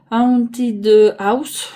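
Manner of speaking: English title in a French accent, h dropped; Haunted House said with a French accent, no h. Real, not acted. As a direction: read "Haunted House" the French way, as "atid aus". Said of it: "Désolée pour mon accent".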